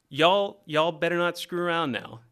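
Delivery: lightly imitated Texas dad's Southern drawl; a hint of a slow Southern accent, like a Texas dad; Southern twang. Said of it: "he talks really slow with a thick Southern twang".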